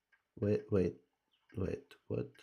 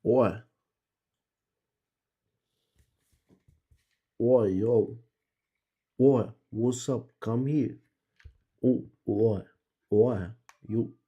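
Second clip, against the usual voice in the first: loud hey-you shouts; calling out; 9 dB louder than usual. Real, not acted. Player shouting at the creature in the game to come, loud calling out. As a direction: holler to get the animal's attention.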